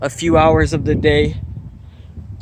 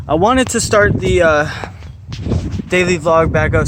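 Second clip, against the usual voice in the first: winded, catching breath between words. Real, not acted. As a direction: talk while short of breath. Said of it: "Sorry, I'm out of breath".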